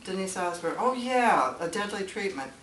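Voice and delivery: a hint of a vague, chirpy clerk; mock publisher voice. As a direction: play the forgetful publisher, lightly mocking. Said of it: "they'd say".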